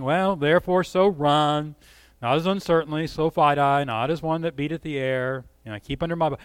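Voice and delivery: listless, indifferent reading; flat and bored. Pretend. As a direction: mumble it like you don't care. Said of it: "I don't hear that kind of tone".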